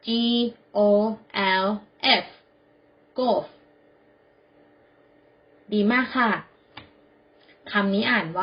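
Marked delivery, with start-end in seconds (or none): 0.0-2.2 letter by letter, slowly; spelled out. Shown as a demonstration. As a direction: spell it out with a pause after each letter. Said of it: "Spell it". (สะกดทีละตัวอักษรช้า ๆ)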